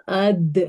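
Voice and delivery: AD with the final D bouncing back; crisp echoing release on the D of اد; qalqala. Shown as a demonstration. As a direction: let the D in اد echo briefly. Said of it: "تینوں sound جو ہے totally الگ".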